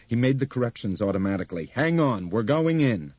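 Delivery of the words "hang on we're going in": tense pilot warning. A narrator's reading. Pilot warns passengers.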